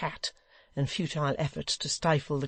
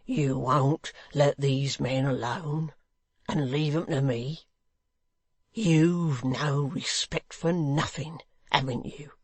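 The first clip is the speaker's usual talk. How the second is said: sullen hangman; slower than usual. Acted. Hangman reproaches Hugh.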